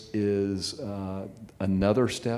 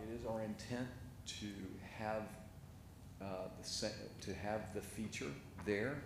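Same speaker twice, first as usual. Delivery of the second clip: halting speech with false starts; stuttering; 12 dB quieter than usual. Real, not acted. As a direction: stumble and restart mid-phrase. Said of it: "I'm stuttering".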